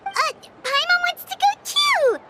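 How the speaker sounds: high, eager exclamation; bright eager call to tag along. Acted. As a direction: jump in wanting to come along. Eager to join jewelry viewing.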